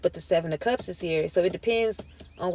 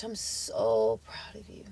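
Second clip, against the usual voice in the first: slow, choked-up praise; about to cry; 4 semitones higher, 14 dB quieter, slower than usual. Real, not acted. Tarot reader moved to tears for her viewer, choked up. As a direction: hold back real tears while praising. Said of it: "I don't know why I'm about to cry".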